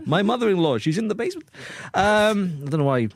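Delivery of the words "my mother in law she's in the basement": put-on high-pitched comic Austrian accent; joking Austrian accent, voice lifted. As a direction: play a mock Austrian, pitched up. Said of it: "I did that accent".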